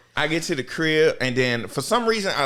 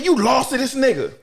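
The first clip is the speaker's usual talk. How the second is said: mock taunt; 12 semitones higher, 5 dB louder than usual. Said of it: "She said".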